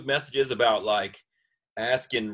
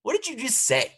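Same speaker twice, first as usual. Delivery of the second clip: mock surprise. Mock shock at being Snapchatted.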